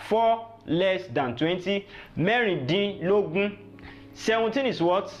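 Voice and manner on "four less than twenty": each word drawn out; slow teaching gloss. Shown as a demonstration. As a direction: spell out the meaning slowly for learners. Teacher slowly glosses number's meaning.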